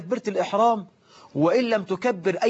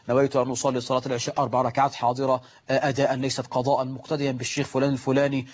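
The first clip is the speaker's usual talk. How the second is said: rattled-off recitation; 4 semitones lower, faster than usual. Acted. Mimics worshipper's rattled-off intention.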